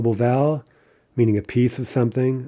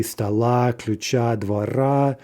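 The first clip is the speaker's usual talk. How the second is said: "stoла, ключа, двора" each stressed on the final a; stress on endings; slower than usual. Shown as a demonstration. Teacher giving genitive examples, "stoла, ключа, двора" stressed on the endings. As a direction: land the last syllable of "stoла, ключа, двора". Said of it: "that ending is always stressed".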